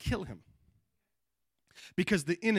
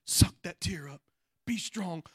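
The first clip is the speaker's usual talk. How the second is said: mock enemy whisper. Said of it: "let the enemy tell you".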